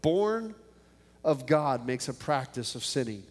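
measured Bible reading voice; scripture reading. Acted. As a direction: read the verses with steady weight. Reads scripture before the prayer.

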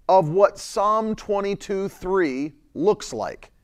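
ordinary talk, nothing marked

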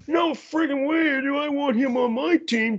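high, scoffing hockey fan; mock the fans who hate small players; outraged fan. Fans mocking small prospect.

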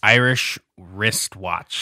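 "Irish wristwatch" very slow, each word separate; careful tongue twister. Shown as a demonstration. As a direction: say "Irish wristwatch" slowly and cleanly. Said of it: "it's like a tongue twister".

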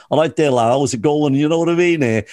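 chummy Liverpool greeting to a fellow actor; Liverpool accent. Retold or imitated. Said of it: "And I love doing the Liverpool accent".

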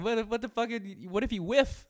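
high loud laughing mock heckle; mocking heckler. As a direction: squeal it out, laughing at him. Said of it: "Be like".

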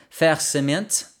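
a quick jokey French accent on fer cement; mock French accent, drawn out. Shown as a demonstration. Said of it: "That's my best French accent for that one".

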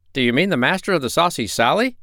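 high, bright sea-creature voice; friendly porpoises call up from the water; chattering porpoises. A narrator's reading. Porpoises answer the doctor at the rail, high and eager.

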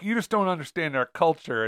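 soft lightly Southern drawl; a hint of a Southern lawyer. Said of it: "Southerners have this way of being like".

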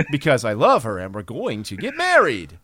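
mock wooden movie actor with misplaced stresses; odd inflections. Lover announcing a wedding, as a stilted Breen impression. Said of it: "is to have odd inflections".

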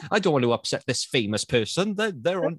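timid awestruck director. Retold or imitated. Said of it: "Probably just too timid".

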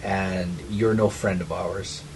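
gurgle the words like water monster; watery garbled voice. Acted. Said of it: "speak in this watery voice. And it's really garbled".

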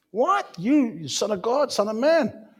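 high, incredulous outraged crowd; indignant disbelief. Acted. Crowd outraged at Jesus's claim, high and incredulous. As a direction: gasp it out, scandalised.

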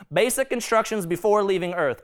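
lightly put-on American Southern accent. Shown as a demonstration. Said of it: "I always go to the Southern accent".

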